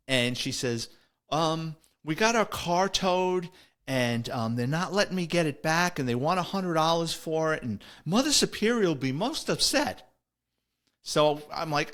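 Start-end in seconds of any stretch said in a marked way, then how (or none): 1.3-10.1 imitating the nun. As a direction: lightly voice the upset nun, pitched up. Tearful nun quoted in story.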